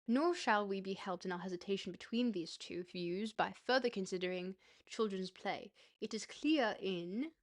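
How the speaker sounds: put-on light Disney-character transatlantic accent. Streamer reading dense theory to viewers, mock transatlantic accent. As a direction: read it in an old-world transatlantic voice. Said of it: "just the vague old world transatlantic Disney character accent".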